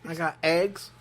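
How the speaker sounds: put-on southern redneck accent. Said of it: "southern redneck accent".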